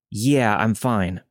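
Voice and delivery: slow, slurred and dazed; slurred words. Retold or imitated. Injured man slurring a reply to a stranger. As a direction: drag the words out like an injured drunk. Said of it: "slurring his words a bit".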